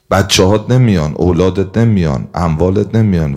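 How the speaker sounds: loud, hammering list of absentees; emphatic declaration. Acted. Deeds' emphatic speech to the dead. (با صدای بلند و کوبنده، تأکید روی هر جمله)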